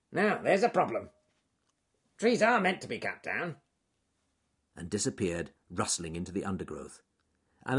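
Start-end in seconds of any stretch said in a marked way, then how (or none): 0.1-3.6 murmuring beaver. Acted.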